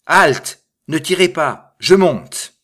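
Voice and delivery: high, loud shout from below; thin, piercing cry. A narrator's reading. Man in the cistern begging them not to shoot, piercing cry. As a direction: cry out shrilly to stop them firing. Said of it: "d'une voix grêle, perçante, il cria".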